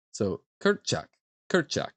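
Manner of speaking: "Kurczak" with CZ said as a ch sound. Shown as a demonstration. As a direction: say "Kurczak" as koor-chak. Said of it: "C Z is the ch sound".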